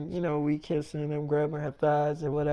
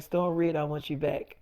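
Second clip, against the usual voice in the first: meaning it; 3 semitones lower, 3 dB quieter than usual. Retold or imitated. David telling Storm sincerely he wants her back, soft. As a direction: lower and softer, sincere. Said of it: "That's a lot better".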